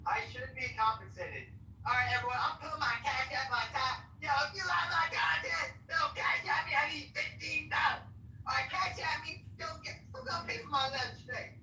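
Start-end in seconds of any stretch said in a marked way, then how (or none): 1.9-11.5 Cray impression. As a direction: hype it up like a bratty cartoon kid begging for cash. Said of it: "you sound like that, the kid from South Park".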